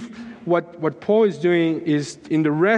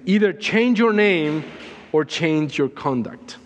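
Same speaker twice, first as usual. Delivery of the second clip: intense. Retold or imitated. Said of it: "he said with intensity".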